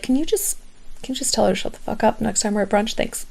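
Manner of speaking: asking a friendship consultant to do the dirty work, softly; mock hushed request. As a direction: rush it quietly, half embarrassed. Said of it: "and be like".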